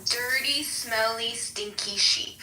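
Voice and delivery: lightly performed quote, each word set apart; quoting someone. Retold or imitated. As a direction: imitate him a little, dragging out the last words slowly. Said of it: "So this is what he said".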